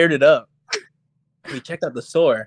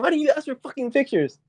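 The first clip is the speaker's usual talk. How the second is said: higher, exasperated retold demand; retold anger; 10 semitones higher than usual. Scolding Steven about the missing photos, exasperated. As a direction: throw the question at him, fed up. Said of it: "I'm getting hella mad at him".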